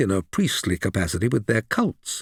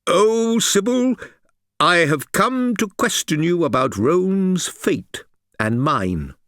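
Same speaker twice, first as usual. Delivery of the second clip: pleading; 7 semitones higher than usual. A narrator's reading. Supplicant addressing the Sibyl.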